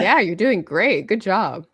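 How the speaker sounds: slow, flat monotone praise; deadpan monotone encouragement. Retold or imitated. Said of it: "my monotone voice".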